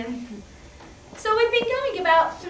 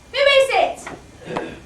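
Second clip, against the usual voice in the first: high, loud and slow; shouting through the door; calling to the door; 11 semitones higher, 9 dB louder, much slower than usual. Acted. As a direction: call out to whoever rang.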